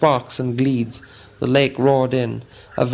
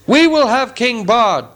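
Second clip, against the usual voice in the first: much higher, loud crowd yell; shouting crowd demanding a king; 10 semitones higher, 6 dB louder than usual. A narrator's reading. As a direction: roar it back as the angry crowd. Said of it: "shouted in reply".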